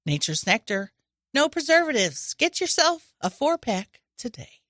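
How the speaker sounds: a light hard-sell ad read; commercial voice. Pretend. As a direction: pitch it like a TV spot. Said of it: "that commercial voice".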